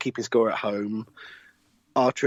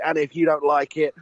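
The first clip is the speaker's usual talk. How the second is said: ringmaster; slower than usual. Acted. Ringmaster intro continued, slowed.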